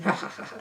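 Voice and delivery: soft creepy mock laugh. Copying the character leaving the room, soft creepy laugh. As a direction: imitate a quiet creepy chuckle. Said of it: "laughing all creepily".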